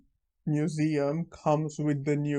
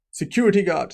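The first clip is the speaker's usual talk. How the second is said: called out loud; 5 semitones higher, 6 dB louder, much faster than usual. Retold or imitated. Villain calls for guard.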